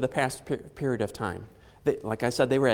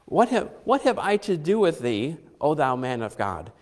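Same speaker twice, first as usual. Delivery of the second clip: derisive; 3 semitones higher than usual. Retold or imitated. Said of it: "She is being derisive".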